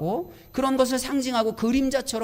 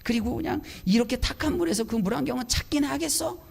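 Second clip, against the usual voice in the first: retold inner grumbling. Preacher replaying his silent complaint about the goggles, mildly exasperated. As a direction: sigh into a mild mock grumble. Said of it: "불평이 막 입은 이만큼 나와갖고 속으로".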